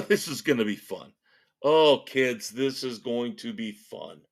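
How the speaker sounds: mock-gleeful sarcasm with a chuckle; sarcastic. Real, not acted. Host teasing listeners about the fun ahead, sarcastically. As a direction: feign excitement, heavy on the irony. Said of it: "Note sarcasm".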